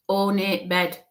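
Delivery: ORNATE BED in slow, separate pieces; broken down slowly. Retold or imitated. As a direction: say "ornate bed" with each syllable set apart. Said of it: "she said it in a w-, that way".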